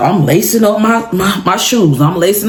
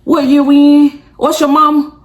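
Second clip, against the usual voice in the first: dazed; 6 semitones higher than usual. Retold or imitated. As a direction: sound knocked silly and lost. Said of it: "knock me to".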